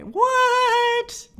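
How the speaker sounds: sudden high loud what; surprised. Real, not acted. Host reacting to a viewer's new car, high surprised yelp. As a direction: blurt it out in disbelief.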